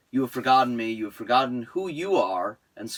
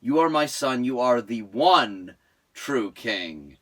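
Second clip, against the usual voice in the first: Mufasa voice; 6 semitones lower than usual. Retold or imitated. Listener quoting Mufasa to Simba, deep and grave. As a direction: speak like a father from the clouds. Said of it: "Look inside yourself, Simba".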